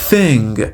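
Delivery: THING with the tongue between the teeth for th; demonstrated th sound. Shown as a demonstration. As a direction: say "Thing" with a clear dental th. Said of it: "اون تی اچ باید دندوناتون رو بذارین".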